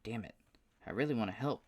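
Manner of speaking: high, whiny southern pout; pouting like a toddler. Acted. Paul pouting because he can't come help, southern whine. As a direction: sulk like a kid who dropped his cookie. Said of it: "like a toddler pouting over a dropped cookie".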